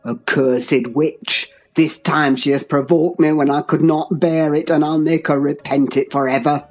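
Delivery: low, dark curse and threat; deep, contained rage; enraged father-in-law. A narrator's reading. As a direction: vow revenge in a deep voice. Heathcliff seizes and threatens her.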